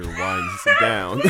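cracking up mid-line, slow; words breaking into laughter; laughing. Real, not acted. First try at the show intro, laughing. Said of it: "Much like normal school".

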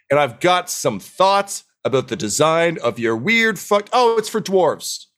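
high-pitched, showy gnome celebrity voice; grandstanding science gnome. Acted. Famous gnome addresses dwarves about their building, grandstanding. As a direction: announce yourself grandly, high and drawn out.

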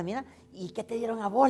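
high, loud nosy question; chattering old friend prying eagerly; excited gossip. Acted. One widow quizzing another about New Year gifts, excited gossip.

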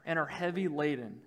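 measured reading with long pauses; scripture reading. Real, not acted. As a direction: read the verse out phrase by phrase. Reads scripture aloud to congregation.

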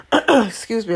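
hoarse after coughing, clearing throat; coughing fit. Real, not acted. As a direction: excuse yourself mid-cough. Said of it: "I'm coughing so much".

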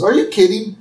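a hint of Homer pouring his heart out; Homer pleading. Homer pleading with Marge to take him back. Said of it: "So then Homer goes".

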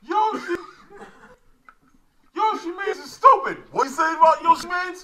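high, laughing shout. Real, not acted. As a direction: yell it out. Shouting name.

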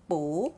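"补" said as bu with a clear rise; second tone. Shown as a demonstration. Teacher recaps the rule for learners, rising second tone on "补". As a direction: sweep the pitch upward on "补". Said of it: "second tone".

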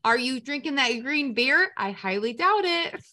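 loose, put-on Boston accent; attempted Boston accent. Teasing an absent listener, in an attempted Boston accent. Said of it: "doing more like a Boston accent".

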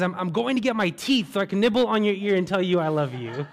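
husband's line delivered through a laugh; grinning old husband's comeback; laughing punchline. Acted.

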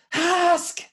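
sudden loud, high-pitched shout; yelled heckle. Retold or imitated. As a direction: bellow it from the back of the room. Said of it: "he yells out".

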